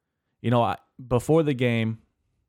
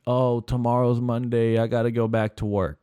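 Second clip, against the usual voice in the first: whiny complainer; 3 semitones higher than usual. Retold or imitated. Mocking people who dread Monday, whiny. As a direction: put on a moaning Monday voice. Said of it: "people that complain".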